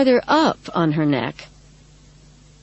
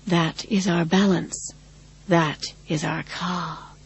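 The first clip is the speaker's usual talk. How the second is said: strange, patient voice. Acted. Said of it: "in a strange, patient voice".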